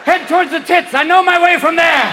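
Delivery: put-on high, loud old-timer on the march; struggling old sperm. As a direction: shout orders like a creaky veteran. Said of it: "they both would have walkers".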